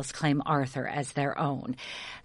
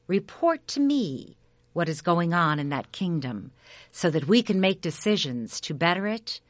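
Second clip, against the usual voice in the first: lightly voiced noble king, firm; king giving orders; 3 semitones higher than usual. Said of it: "he said".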